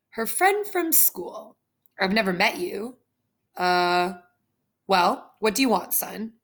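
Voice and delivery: a hint of a gruff dad; suspicious father. Suspicious father questions caller.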